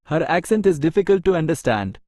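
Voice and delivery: each word spaced out slowly for learners; slow dictation. Shown as a demonstration. Teacher reading an English example sentence to Tamil learners, very slow and clear.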